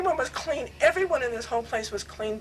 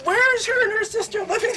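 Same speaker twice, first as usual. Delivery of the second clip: higher, pressing question; imitating Swami; 12 semitones higher, 4 dB louder than usual. Swami demanding where the sisters live, higher voice. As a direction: voice the guru demanding an answer.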